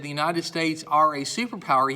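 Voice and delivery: loud delivery with "are" punched; stress on "are". Shown as a demonstration. Teacher saying what students would snicker at, stressed "are". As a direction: push "are" so it sounds odd. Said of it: "because it sounds wrong".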